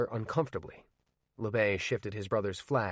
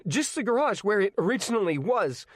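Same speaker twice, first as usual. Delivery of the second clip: higher, louder, pleading; calm cracking; 11 semitones higher, 6 dB louder than usual. Acted. Arnie pleads with LeBay for the garage, calm cracking. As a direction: let the calm give way. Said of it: "his calm starting to crack".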